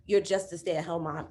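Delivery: low, belittling jab; mocking put-down of a stay-at-home mom; dismissive enemy voice. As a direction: brush her off as just a mom. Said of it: "he's always gonna be like".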